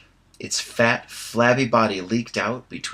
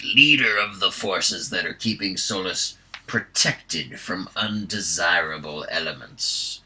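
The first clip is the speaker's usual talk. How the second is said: pompous hobgoblin; 3 semitones lower, 4 dB louder than usual. Acted. Viewmaster Toad announces the arrest, pompous hobgoblin voice. Hobgoblin voice held through speech.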